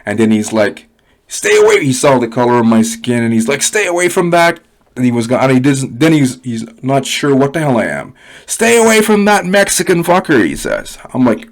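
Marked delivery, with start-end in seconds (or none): 1.3-1.9 higher-pitched imitation of an angry dad; retold angry warning. Farmer dad warns daughters off a teenager, retold angry warning. 3.6-4.6 mock angry dad, pitched up; retold angry warning. Farmer dad warns daughters off, retold angry warning. 8.5-10.5 high-pitched mimicry of an irate dad; retold angry warning. Drunk farmer dad warns daughters off, retold high angry warning.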